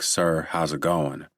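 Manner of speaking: slow, drawn-out Southern drawl; southern accent. Retold or imitated. Officer answering the governor's call in a Southern accent. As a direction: stretch it out like a Southern deputy. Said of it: "his deeply southern accent, sounding more like".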